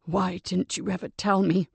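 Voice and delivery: hoarse croak. Acted. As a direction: force it out through a dry throat. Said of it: "croaked Duncan".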